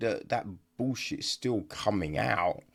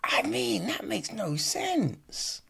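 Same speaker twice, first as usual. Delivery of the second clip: incredulous whisper; 10 semitones higher, 3 dB quieter than usual. Retold or imitated. Reviewer reacting to a stupid interaction, in a baffled whisper. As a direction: breathe it out, baffled. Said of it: "that you're just like".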